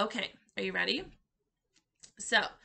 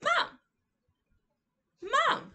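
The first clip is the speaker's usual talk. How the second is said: high, loud, drawn-out Mom; demo sign word; 4 dB louder than usual. Shown as a demonstration. Teacher showing toddlers the sign, calling Mom high and loud. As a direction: sing out Mom for a child. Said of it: "and we go down".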